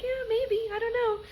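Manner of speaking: mock agent shrug. Scotia guy voiced.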